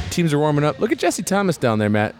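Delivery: lively courtside play-by-play; sportscaster voice. Acted. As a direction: call the warmups like a broadcaster. Play-by-play of game.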